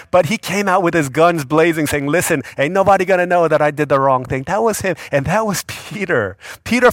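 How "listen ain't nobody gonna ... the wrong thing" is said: cocky defiance. Retold or imitated. Peter defends himself boldly.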